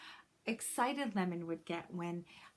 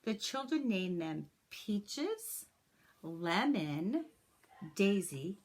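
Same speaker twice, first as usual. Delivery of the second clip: put-on gentle, expressive read-aloud for children; story narration; 3 dB louder than usual. A narrator's reading. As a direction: read it like a teacher sharing a picture book with the class. Reads a picture book to class.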